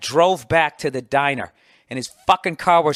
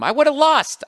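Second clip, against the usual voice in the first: higher, louder on would've; emphatic; 12 semitones higher, 5 dB louder, slower than usual. Real, not acted. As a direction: punch the admission. Emphatic admission.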